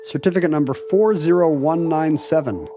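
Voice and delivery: slow, measured computer-archive readout; archive entry read. Acted. Host announces the episode entry, slow and formal.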